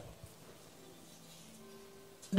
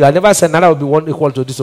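fast denial; faster than usual. Real, not acted. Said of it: "Please don't misquote me".

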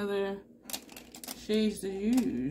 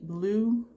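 BLUE lifted and louder at the end; odd rising BLUE; 3 semitones higher, 4 dB louder than usual. Real, not acted. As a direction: let BLUE swing up oddly. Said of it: "I don't know why I said it like that".

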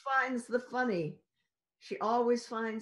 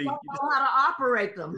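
laughing echo; 3 semitones higher, 6 dB louder, faster than usual. Real, not acted. Cast member echoing a joke.

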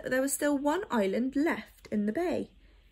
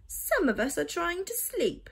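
grumpy creaky voice; 7 semitones higher than usual. A narrator's reading. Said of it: "grumbled a creaky voice".

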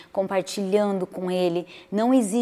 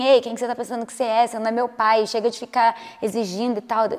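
defensive snap. Retold or imitated. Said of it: "eu ficava tipo assim".

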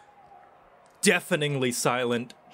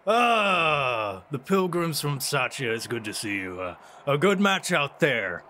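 feigned friendliness. Acted. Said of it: "Andre feigns a smile".

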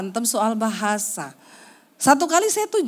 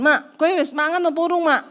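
harsh-sounding Javanese; 5 semitones higher than usual. Retold or imitated. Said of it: "Say, kasar banget".

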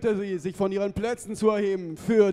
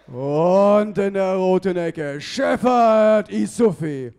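emphatic announcer call; 5 dB louder, slower than usual. Acted. Announcer introduces second boxer.

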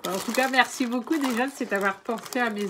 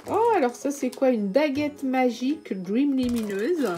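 higher and louder, a gasp of discovery; oh, what's this, genuinely thrilled; surprised delight; 4 semitones higher, 3 dB louder than usual. Real, not acted. Finding a magic wand in the parcel: surprised, high and loud. Discovering a new gift item.

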